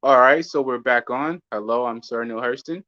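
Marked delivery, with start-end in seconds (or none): 1.5-2.8 smooth newsreader intro; newscaster voice. Pretend. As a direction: read it like the evening news. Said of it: "this newscaster voice".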